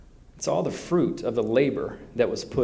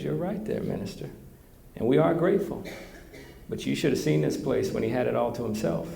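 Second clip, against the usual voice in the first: Texan farmer; 4 semitones higher than usual. Retold or imitated. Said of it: "That's how they talk in Texas".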